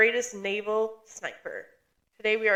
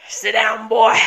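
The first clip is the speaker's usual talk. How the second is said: bossy shout; 9 dB louder than usual. Acted. Playful bossy retort.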